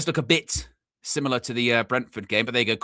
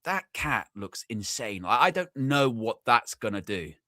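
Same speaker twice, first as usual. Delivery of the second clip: hushed and slow, eyeing a scary cat; wary aside about the cat; 5 semitones lower, 6 dB quieter than usual. Retold or imitated. To a mate about his cat, hushed slow wariness. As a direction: mutter it slowly so the cat won't hear. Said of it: "and you go".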